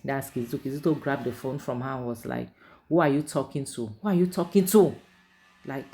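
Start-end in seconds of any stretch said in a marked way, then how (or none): 2.9-5.0 retold husband snapping, rising louder; angry husband demanding. Husband grabbing her phone, demanding who she's calling, angry. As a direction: demand it, building to a loud edge.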